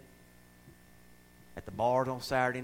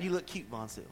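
sweet church voice; 4 semitones lower, 6 dB quieter than usual. Retold or imitated. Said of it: "we're saying".

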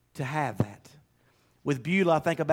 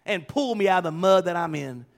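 fervent prayer; 5 semitones higher than usual. Pretend. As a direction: cry out to God to lead you out.

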